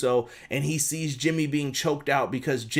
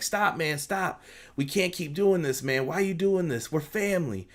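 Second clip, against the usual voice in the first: higher-pitched mock plea; acted-out pleading, pitched up; 4 semitones higher than usual. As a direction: imitate a brother begging him to stop. Acted pleading of brother stopping fight.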